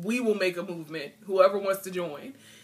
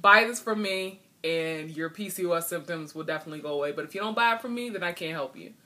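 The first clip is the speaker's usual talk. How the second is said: mock pushy seller. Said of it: "instead of me pushing off".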